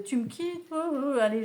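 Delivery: hammed-up wail of someone just dumped; désespoir joué. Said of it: "et pleurer sans, euh, sans discontinuer". (chagrin d'amour surjoué, voix haut perchée)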